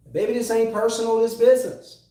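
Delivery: lightly voiced mob boss laying down the law; Nino Brown quote. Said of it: "Great philosopher Nino Brown".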